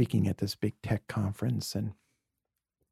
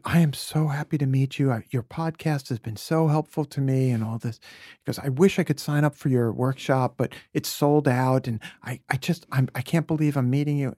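gushing fan; 4 semitones higher, 5 dB louder than usual. Retold or imitated. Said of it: "And he said".

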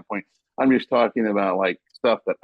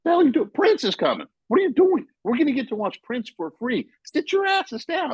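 retold exasperated yell. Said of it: "And I was like".

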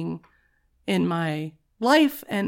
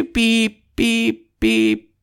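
slow loud robot beeps; reversing truck beeps; 2 semitones higher, 6 dB louder, much slower than usual. Shown as a demonstration. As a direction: beep like backing up. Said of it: "Is that a robot backing up?".

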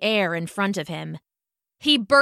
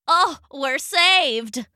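shouting; 3 semitones higher, much slower than usual. Acted. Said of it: "shouted the zebra".

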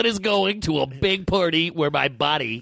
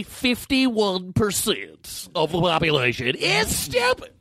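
Tom Leykis impression; 3 semitones higher than usual. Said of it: "I like how you're acting it out".

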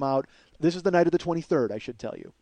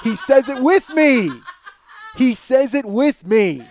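laughing; 9 semitones higher, 10 dB louder, much slower than usual. Real, not acted.

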